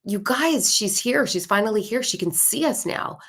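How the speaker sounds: retold yell, high and thrilled; excited calling out. Little boy yelling to the other children that she's here, excited. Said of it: "So he starts yelling".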